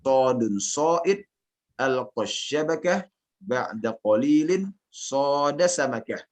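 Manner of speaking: slow verse dictation with rising phrase endings; measured Arabic recitation, falling only at the close; model recitation for repeating. Shown as a demonstration. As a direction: lead a class repeat, phrase by phrase. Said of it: "anak talkinkan, kemudian boleh diikuti".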